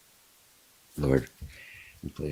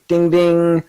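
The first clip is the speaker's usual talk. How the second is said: bell sound; 12 semitones higher, 12 dB louder than usual. Pretend.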